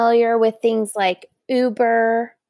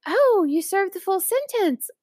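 higher, alarmed echo of his words; pitched-up stunned echo; mock shocked repeat; 8 semitones higher than usual. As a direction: repeat it back in disbelief. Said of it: "I was like".

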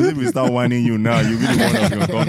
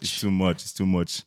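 hushed mock awe; 3 semitones lower, 7 dB quieter than usual. Mock overwhelmed, quiet.

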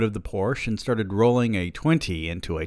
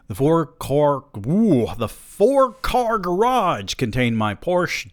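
gloating; 8 semitones higher, 5 dB louder, slower than usual. A narrator's reading. Narrator savoring luxury.

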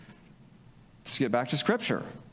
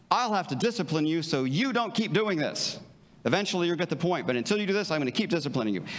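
a mildly stern, controlling parent scolding; harsh controlling parent; 4 semitones higher than usual. Acted. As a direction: lightly play the strict parent laying down the law. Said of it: "the total controlling, harsh mode".

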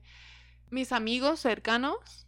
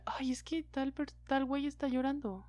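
mocking schoolkid; 3 semitones higher, 7 dB quieter than usual. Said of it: "alguien decía".

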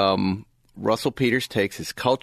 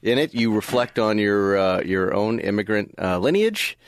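reading from script; 3 semitones lower than usual. Real, not acted. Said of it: "try not to sound like you're reading it".

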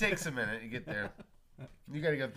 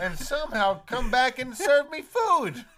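laughing; 14 dB louder than usual. Real, not acted. Laughing through a bit.

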